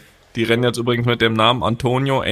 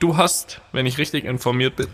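burping; 3 dB quieter than usual. Real, not acted. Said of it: "oh, Entschuldigung, musste aufstoßen".

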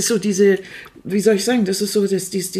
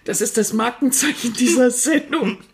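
laughing; 3 semitones higher than usual. Real, not acted. Amused remark about eating on air.

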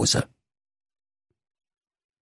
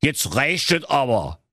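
slow, higher-pitched telling-off; like an overwhelmed trainee teacher, without real volume; exasperated bellow; 8 semitones higher than usual. Acted. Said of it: "brüllte der Esel Zwenni, wie ein Lehramtsanwärter". (genervtes Machtwort, gedehnt und höher)

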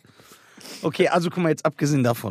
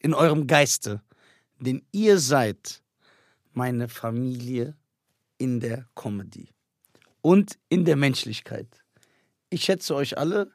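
mock-solemn confession; 6 semitones lower than usual. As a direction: play it like a heartfelt vow, half joking. Mock-solemn love speech to friends. (gespielt feierliche Liebeserklärung an die Freunde)

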